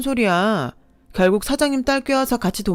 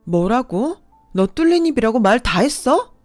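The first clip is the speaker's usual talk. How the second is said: heated quarrel; 3 semitones higher, 4 dB louder than usual. Acted. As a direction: hurl insults back, rising. Quarrel with ex, insults fly.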